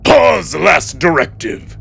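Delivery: barked order. Acted. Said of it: "Cato barks out another order".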